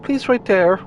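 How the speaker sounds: very high, chirpy rabbit voice; Loporrit voice. Acted. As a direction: squeak it out like a bossy little bunny. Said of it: "I don't want to do the flippin' Loporrit voice".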